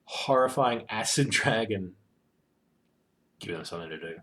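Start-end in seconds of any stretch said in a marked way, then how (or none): 0.0-1.9 pleading player. Retold or imitated. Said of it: "players in the campaign who are like".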